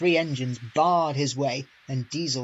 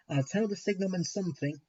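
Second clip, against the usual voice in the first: grim; 4 semitones higher, 4 dB quieter, faster than usual. A narrator's reading. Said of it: "he said grimly".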